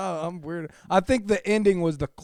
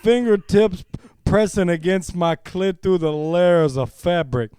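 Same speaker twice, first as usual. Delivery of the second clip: best voice. Pretend. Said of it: "I'm gonna read this in my best voice here".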